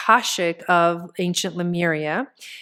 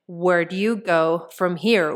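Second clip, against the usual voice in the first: usual speaking voice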